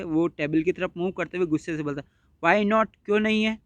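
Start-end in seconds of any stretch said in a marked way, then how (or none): 2.4-3.6 mild annoyed. Acted. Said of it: "annoyed, annoyed यानी गुस्से से".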